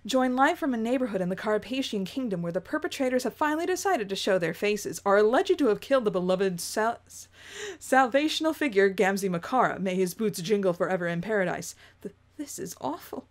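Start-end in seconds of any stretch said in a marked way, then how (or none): 0.1-11.7 reporter voice. Acted. News reporter announcing the rebels' appearance, in a lightly voiced reporter read. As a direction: read it like a hurried field reporter on air. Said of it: "I get to do a reporter voice".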